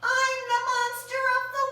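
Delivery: high, quick, sing-song creature voice; tiny monster announcing who it is; monster's voice. Acted. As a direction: announce yourself grandly but small. Monster introduces itself.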